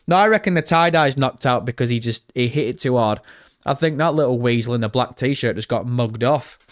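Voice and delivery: ordinary talk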